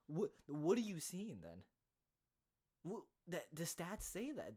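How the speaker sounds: loud, high incredulous retort; exasperated outburst. Real, not acted. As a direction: snap back at the commentator in disbelief. Ranting at commentator's claim.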